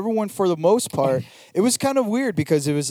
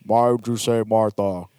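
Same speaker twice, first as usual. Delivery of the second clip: Batman voice; 3 semitones lower than usual. Retold or imitated. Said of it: "Batman was like".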